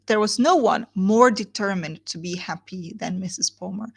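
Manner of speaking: "no" lifted with a rise; stress on no one. Shown as a demonstration. Teacher rereading the line to stress it. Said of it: "look at the words".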